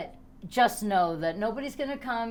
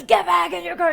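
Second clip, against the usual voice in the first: high, loud mock command; retold yell; 9 semitones higher, 9 dB louder than usual. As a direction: bark it like a cop. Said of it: "He starts yelling at me".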